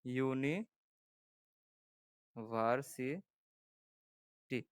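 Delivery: ইউনি-, ভার্সি-, টি broken into slow separate syllables. Shown as a demonstration. Teacher showing students how ইউনিভার্সিটি sounds, syllable by syllable. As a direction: split ইউনিভার্সিটি into its syllables with pauses between. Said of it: "একটা জিনিস দেখাই দেই".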